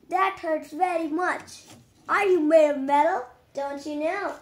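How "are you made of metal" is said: loud, quick astonished question; surprised shout. Pretend. Pretend Hulk amazed at Iron Man's armor, loud quick question. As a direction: blurt it out, louder and faster.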